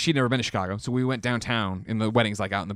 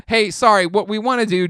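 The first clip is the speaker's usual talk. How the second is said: higher, louder apologetic opener; apologetic tech; 9 semitones higher, 8 dB louder than usual. Retold or imitated. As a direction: technician leaning in to apologize. Technician apologizing.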